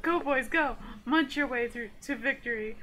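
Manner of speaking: loud rallying cheer; cheering coach. Acted. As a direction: pump them up like a coach. Coach cheering eating contest.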